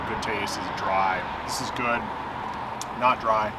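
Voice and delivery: talking while chewing food; speaking through a bite of burger; mouth full, chewing. Real, not acted. Seen 1: Burger in hand, jaw working, lips closing between words while talking.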